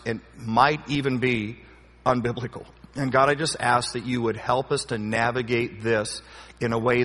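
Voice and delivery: earnest spoken prayer, unhurried; closing prayer. Real, not acted. Closes in prayer.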